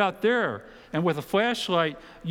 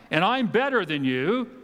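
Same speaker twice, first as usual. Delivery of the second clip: smug superiority; 4 semitones higher than usual. Pretend. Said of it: "just implying".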